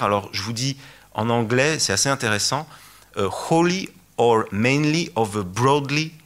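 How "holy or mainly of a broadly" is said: French-accented English. Real, not acted. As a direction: read the ministry's English words in a French accent, slightly higher. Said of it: "excusez mon accent".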